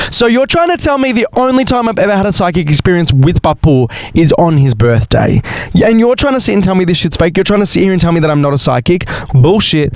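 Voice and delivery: high, indignant challenge; daring the sceptics to argue. Real, not acted. Indignant rant at doubters.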